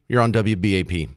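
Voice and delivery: normal talking voice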